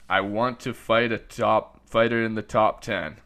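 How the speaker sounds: imitating a Russian fighter's accent. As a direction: quote him in a thick Russian accent. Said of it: "like your Russian accent".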